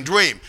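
"dream" said as "dweem"; childlike "dweem" for "dream"; Paul's "dweem". Retold or imitated. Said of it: "the word dream comes up".

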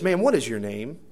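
lightly imitated bold Southern question; southern accent. Passenger demanding the stewardess's name, mild southern accent. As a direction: put a touch of Southern boldness on it. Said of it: "it's got that southern accent".

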